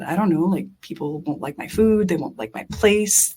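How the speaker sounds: mildly frantic list of fears, rising as it goes; retold terror. Daughter telling her mom why she fears failing, mildly panicked. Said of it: "I am terrified out of my mind".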